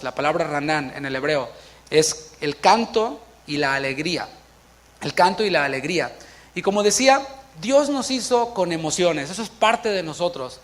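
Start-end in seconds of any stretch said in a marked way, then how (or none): none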